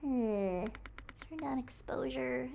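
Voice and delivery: normal talking voice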